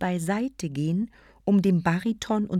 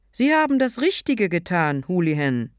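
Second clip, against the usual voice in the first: approving; 5 dB louder than usual. Acted. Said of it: "beifällig".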